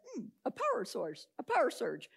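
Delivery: retold sceptical musing; mock pondering. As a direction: mull it over with mock doubt. Group skeptically mulls the electrician's explanation.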